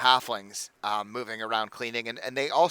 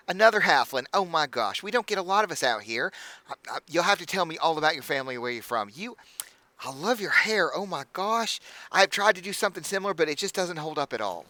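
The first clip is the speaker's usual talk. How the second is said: high, gushing hostess voice; bubbly halfling innkeeper; 5 semitones higher than usual. Acted. Innkeeper welcoming the party, high and gushing. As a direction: fuss over the guests in a bright, much higher voice.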